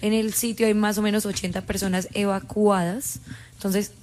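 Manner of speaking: measured, even breaking-news delivery; level, factual on-air announcement; news report. Real, not acted. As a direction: report it like a radio bulletin.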